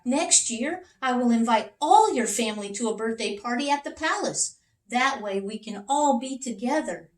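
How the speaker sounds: high, eager king; king's voice. Acted. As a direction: rush the promise like a generous little king. King speaks.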